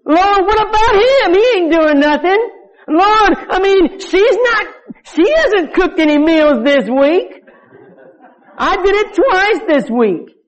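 tattle to the Lord like a sulking church member; mock whining complaint. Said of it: "You ever felt that way?".

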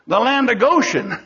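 laughing as the answer comes out; amused delight. Real, not acted. Preacher revealing the reward to his congregation, chuckling with delight. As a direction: break into a chuckle on the last word.

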